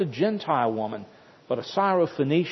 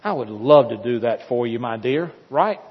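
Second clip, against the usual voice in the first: mock loving. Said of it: "lovingly and says".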